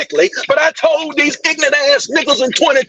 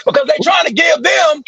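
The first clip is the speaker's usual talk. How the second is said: heated shouting. Real, not acted. Heated political rant.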